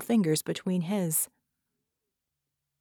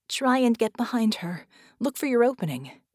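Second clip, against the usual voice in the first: higher, urgent woman's voice; Vicky's order; 4 semitones higher, 4 dB louder than usual. Acted. Vicky tells Red how to attack, urgent. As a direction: instruct him with urgency.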